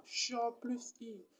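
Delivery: "Cha plus I" slowly, each sound held apart; sounds spelled out. Shown as a demonstration. Teacher breaking chi into its sounds, "Cha plus I" said slowly. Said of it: "chi est composé de quoi?".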